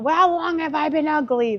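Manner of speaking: high, squeaky cartoon sponge voice; SpongeBob impression. Comparing himself to SpongeBob, high squeaky cartoon voice. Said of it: "It's like SpongeBob".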